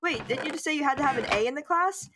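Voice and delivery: imagined listener cutting in to query; puzzled interruption. Acted. Viewer questioning the storyteller, puzzled.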